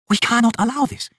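high, pleading goddess voice; sister elder god. A narrator's reading. Sister refuses the king's deed, high and pleading.

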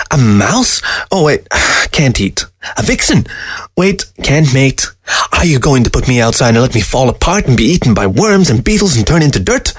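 lightly acted fox, needling with each guess; lifted, swooping sardonic voice; sarcastic fox.

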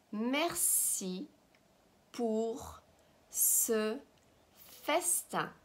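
"Merci pour ce festin" with a pause after each word; slow dictation of "Merci pour ce festin". Shown as a demonstration. Teacher models phrase word by word.

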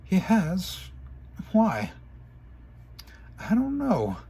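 upset exchange. Acted. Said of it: "Twilight said angrily".

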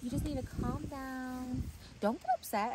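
mimicked "just calm down" voice; condescending calm-down. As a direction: lightly imitate someone patronizingly telling you to relax. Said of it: "That or someone's like".

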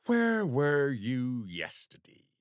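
slow, deliberate police question; slow interrogation. Acted. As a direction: drop it on him slowly. Sergeant starts interrogation.

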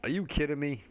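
can't believe the waterfall in the bathroom; amazed surprise. Real, not acted.

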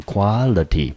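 "quality" said slowly and clearly; model word. Shown as a demonstration. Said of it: "拼法很像，念成".

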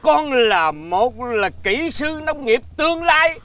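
slow, stretched-out pompous declaration; grand proclamation. Acted. Father proclaims child a future farm engineer, grandly.

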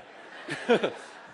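a short breathy laugh. Real, not acted. Preacher laughing at his book joke with the congregation. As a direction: laugh at your own joke.

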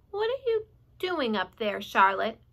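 peer up and ask; curious pig. Acted. Wilbur curious.

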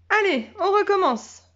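high, eager call; let's go again, bursting with fun; eager girl. A narrator's reading. Girl wanting another sled run, high and eager. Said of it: "dit Bérénice".

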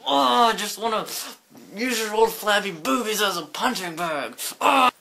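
exasperated put-on outburst; mock tantrum. Grandchild raging at Grandma, whiny mock fury. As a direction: groan out an over-the-top grudge.

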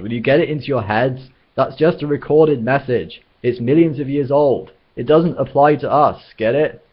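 high, emphatic, impatient explaining; exasperated insistence. A narrator's reading. Zaphod insists to worried companions.

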